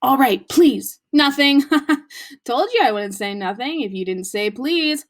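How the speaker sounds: mocking Peeves with a laugh; gloating poltergeist. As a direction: tease him, then laugh. Peeves tricking Filch.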